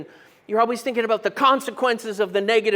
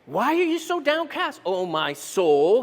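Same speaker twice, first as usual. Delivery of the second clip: psalm lament; 4 semitones higher than usual. Shown as a demonstration. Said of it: "We see this in Psalm forty-two".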